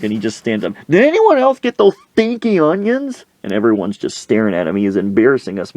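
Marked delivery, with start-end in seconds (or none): 0.9-3.2 very high mock holler; hollered question. Coach standing up before customers, high hollered question. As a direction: call out to everyone, voice pitched way up. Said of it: "he's just hollering".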